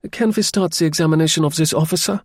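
peeved, put-upon officer; annoyed. Acted. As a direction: demand it, irritated at the delay. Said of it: "in an annoyed kind of voice".

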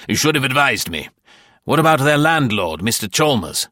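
agitated official. A narrator's reading. Bartlett, rattled, demands answers from Dudley. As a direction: press him, rising in alarm.

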